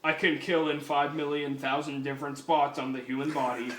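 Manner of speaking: even-toned amateur robot voice; lightly voiced robot cop; RoboCop. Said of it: "That's the worst fucking RoboCop voice ever".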